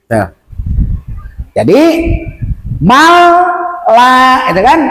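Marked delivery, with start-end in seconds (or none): 2.8-4.5 "mal la" in two slow parts; lengthened la. Shown as a demonstration. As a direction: say "mal", then hold "la". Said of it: "Alifnya panjangkan dua harokat".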